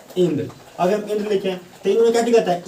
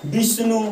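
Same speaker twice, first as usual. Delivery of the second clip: विष्णु said higher with the first syllable वी pushed; stress on वी; 4 semitones higher than usual. Shown as a demonstration. Teacher demonstrating to students the stressed वी in विष्णु. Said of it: "वी पर हम ज़्यादा जोर डालते हैं".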